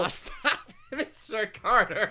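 giggling through words; giggly tickle attack. Acted. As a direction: laugh while protesting. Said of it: "Tickle, tickle".

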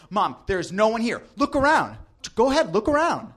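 put-on high, insistent girl voice; indignant protest. Girl protesting to her mom.

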